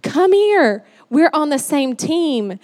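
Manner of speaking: rallying, slowing to deliberate comfort; reassuring teammate. Retold or imitated. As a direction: call them in close, then reassure slowly. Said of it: "He's like".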